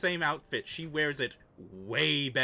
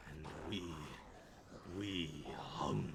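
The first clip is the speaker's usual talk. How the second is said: zombie whisper; 11 semitones lower, 12 dB quieter than usual. Acted. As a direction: breathe it like a starving ghoul. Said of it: "drop the zombie voice now".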